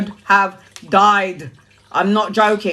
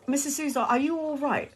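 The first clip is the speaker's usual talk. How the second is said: soft, higher paramedic question; hushed paramedic; 5 semitones higher, 10 dB quieter than usual. Retold or imitated. Ambulance man asking Mrs Souza softly if she is all right. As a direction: lightly voice the concerned paramedic, softly.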